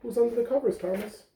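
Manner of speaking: gentle read-aloud storytelling voice; lively picture-book reading; reading to children. Acted. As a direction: read it like story time for little ones. Teacher reads picture book aloud.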